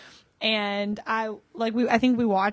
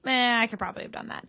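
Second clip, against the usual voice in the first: mock nonchalant; 3 semitones higher, faster than usual. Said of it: "The way you just said that".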